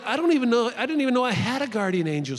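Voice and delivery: high, loud astonishment; amazed mother. Retold or imitated. Mom to nurse on learning of guardian angels, amazed. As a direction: imitate a mom's startled admission.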